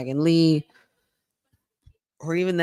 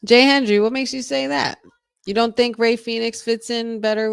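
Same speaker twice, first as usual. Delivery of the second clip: surprised question; 6 semitones higher, 4 dB louder than usual. Real, not acted. Questioning a chatter.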